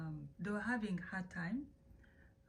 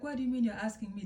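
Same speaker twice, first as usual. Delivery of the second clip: quick, louder mock indignation; indignant retort; 3 semitones higher, 6 dB louder, faster than usual. Dad challenged by his wife in his own house, indignant. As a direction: fire back as an affronted dad.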